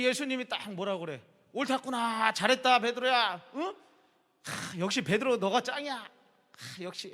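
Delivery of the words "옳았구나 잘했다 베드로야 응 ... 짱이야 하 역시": gushing Jesus. Retold or imitated. Imagined Jesus over-praising Peter, mock gushing. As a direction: hype Peter up like a buddy.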